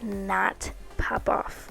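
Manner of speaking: slow breathy whisper, almost silent; whispered aside. Acted. Nail vlogger whispering an aside to viewers, hushed.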